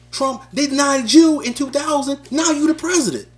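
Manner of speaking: fiery, preachy rapper-style promo, building in spurts; boastful campaign rant in a lightly voiced famous rapper; famous rapper promo. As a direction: sell yourself as a famous rapper to the crowd. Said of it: "Because I tried to be Kanye with it".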